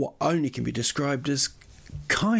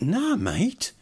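high, loud mock-furious yell; passionate yell; 12 semitones higher, 3 dB louder, much slower than usual. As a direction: let it rip at the driver. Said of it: "I'm just full of passion now".

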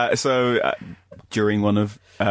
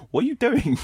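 high, startled what are you doing; hammed-up alarm; mock shocked. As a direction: act appalled. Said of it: "Elvis just looks like".

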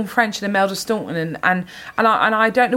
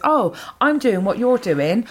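slow, higher mocking quote of a copycat; copycat girl; 5 semitones higher, slower than usual. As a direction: draw it out, mimicking an annoying imitator. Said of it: "any girl that comes up to me and says".

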